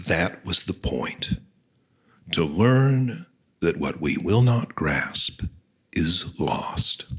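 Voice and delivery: slow, measured poetry reading with deliberate pauses; unhurried verse reading to an audience; poem recitation. Acted. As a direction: recite line by line, letting each phrase fall at the end.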